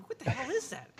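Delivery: high, spooked voice; spooked guy. Acted. Crowd member spooked by the invisible thing. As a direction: ask it in alarm.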